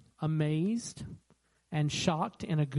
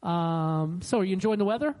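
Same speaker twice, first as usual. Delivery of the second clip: polite deflection. Shown as a demonstration. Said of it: "be kind, be respectful, say".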